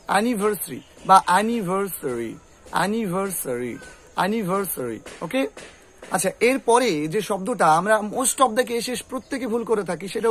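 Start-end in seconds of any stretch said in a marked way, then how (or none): 0.1-5.0 অ্যানিভার্সারি as "anivarsri", then "anivar-suri"; short weak vowel before ri in অ্যানিভার্সারি; reduced ending on অ্যানিভার্সারি; correct variants. Shown as a demonstration. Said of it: "উচ্চারণটা কি হবে".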